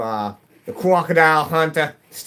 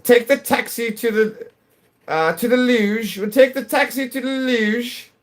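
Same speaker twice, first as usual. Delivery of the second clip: put-on prim British accent, much higher than usual; 11 semitones higher than usual. Streamer to chat, faking a posh British accent. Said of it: "I go like".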